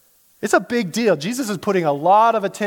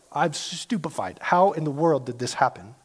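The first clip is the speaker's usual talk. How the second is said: low, hushed disbelief; stupefied; 3 semitones lower, 4 dB quieter than usual. Acted. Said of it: "where people are like".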